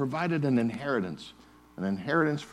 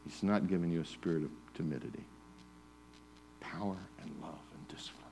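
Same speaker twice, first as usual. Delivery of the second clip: dictation; 6 semitones lower, 13 dB quieter, faster than usual. Shown as a demonstration. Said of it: "Write that down".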